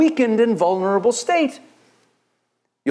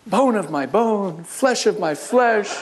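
slow, tender mock lover's voice; lingering lovestruck quote of Adam; doting Adam; 2 semitones higher, slower than usual. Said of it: "Adam was like".

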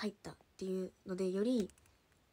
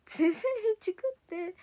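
excited emphasis; 8 semitones higher, 6 dB louder, slower than usual. Real, not acted. Retelling being snitched on.

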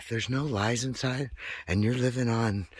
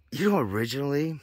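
excited burst; 7 semitones higher, 5 dB louder, faster than usual. Real, not acted. Sudden excited outburst.

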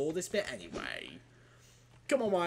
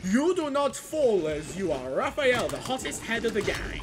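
put-on elderly Raphael; 5 semitones higher, 4 dB louder than usual. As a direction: play an old, tired Raphael. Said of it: "my impression of elderly Raphael".

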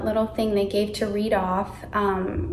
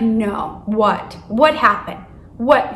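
disbelief; 5 dB louder, much slower than usual. Retold or imitated. Email never came.

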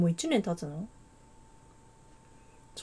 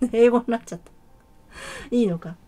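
surprised; 7 dB louder, faster than usual. Real, not acted. Typed name came out wrong.

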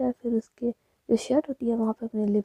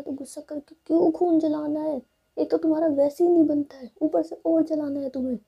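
high, loud exasperated nagging; raised, pleading reproach; fond scolding; 6 semitones higher, 6 dB louder than usual. Acted. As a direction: scold a loved one out of worry. Rui fondly scolds angry Jiya.

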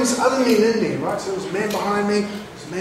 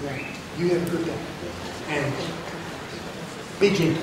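calm farewell; 3 semitones lower, 6 dB quieter than usual. Retold or imitated. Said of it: "I walked up to him and I said".

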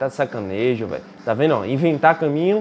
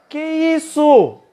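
long, high, drawn-out disbelief; shocked cry; 10 semitones higher, 4 dB louder, much slower than usual. Real, not acted. Gamer shocked at losing to his brother, drawn-out high cry. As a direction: stretch it out in total shock.

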